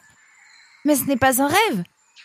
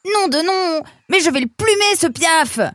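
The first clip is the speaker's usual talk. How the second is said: loud, higher roar of exasperation; furious yell; 4 semitones higher, 4 dB louder than usual. Acted. Nemrod about to throw a stone at the parrot, furious yell. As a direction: threaten the bird at full voice. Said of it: "hurla Nemrod".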